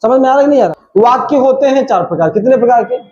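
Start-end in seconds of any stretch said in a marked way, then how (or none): 2.3-3.0 teacher calls out. Acted. Teacher quizzing the class.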